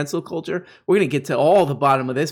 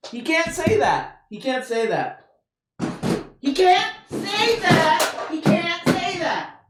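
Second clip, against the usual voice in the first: high falsetto, slow and wailing; mock horror; slower than usual. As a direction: drag out a pearl-clutching falsetto wail. Mock horror about swearing.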